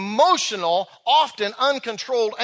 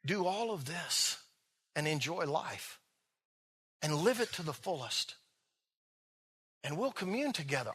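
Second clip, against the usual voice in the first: tender voice of God; 2 semitones higher than usual. Retold or imitated. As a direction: speak God's loving words to Adam and Eve. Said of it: "he said to them".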